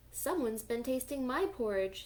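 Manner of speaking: lightly voiced mama bear; just a hint of mama bear; middle-sized voice. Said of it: "in her middle-sized voice".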